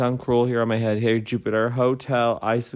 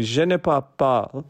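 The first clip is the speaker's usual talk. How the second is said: imitating friend; 3 semitones higher than usual. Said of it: "the funniest thing".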